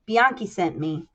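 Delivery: put-on Little Italy gangster accent; a touch of Little Italy mobster; Italian-American accent. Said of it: "I'm still doing his accent".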